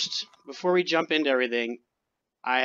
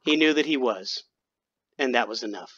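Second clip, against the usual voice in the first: dramatic story narration; 3 semitones lower than usual. A narrator's reading. Storyteller reading of a being becoming aware, portentous. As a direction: weigh each phrase like a sci-fi prologue.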